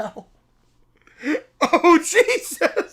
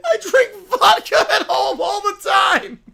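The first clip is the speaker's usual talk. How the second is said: mock four-year-old. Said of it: "Just a four-year-old saying".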